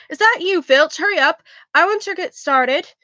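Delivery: a hint of a Scottish accent; slightly Scottish. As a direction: call out with a light Scottish lilt. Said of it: "that sounded a little Scottish".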